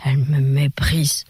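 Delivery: put-on a mild, breathy drunken murmur; hiccuping drunk lament. A narrator's reading. Drunk Vévé muttering to himself about Marguerite. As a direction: mumble it to himself between hiccups. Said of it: "ses épaules secouées de hoquets, il monologuait".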